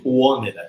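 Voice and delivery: "wanted" merged with "to" as "wonnida"; tudo misturado. Shown as a demonstration. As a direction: blur "wanted" plus "to" into one word, "wonnida". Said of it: "E aí, mistura tudo". ("wanted" com "to" junto, "uónira")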